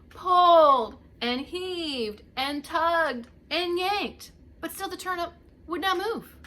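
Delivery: slow and loud, heaving; straining effort. A narrator's reading. Both old folks tugging together, loud strained heave. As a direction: pull the words out with effort.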